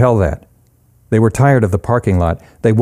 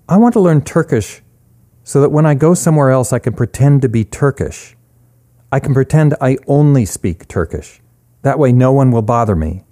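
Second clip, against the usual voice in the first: a slightly raised voice for a story character, earnest; lightly voiced Charlie; 5 semitones higher than usual. Charlie explains to Eric why she is learning Turkish, lightly voiced character. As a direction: lightly lift the voice into character dialogue.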